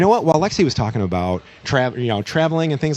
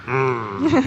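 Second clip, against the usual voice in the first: put-on old man groan. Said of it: "makes this old man noise".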